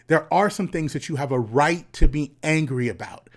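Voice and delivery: breathy unvoiced whisper. Shown as a demonstration. Speaker repeats his point to young men, now whispered. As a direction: say it like a secret, no voice.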